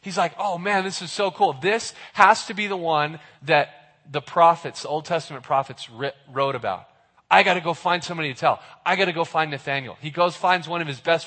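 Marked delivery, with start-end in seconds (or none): 0.4-10.0 fast, eager retelling of Philip; excited Philip. Retold or imitated. Preacher voices Philip excited to tell his friend. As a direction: rush it like a thrilled friend. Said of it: "So he's so excited".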